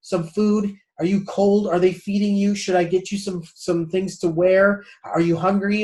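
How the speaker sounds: fussing mom. Retold or imitated. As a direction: play the worried mom checking in. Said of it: "imagine what happens when you call mom".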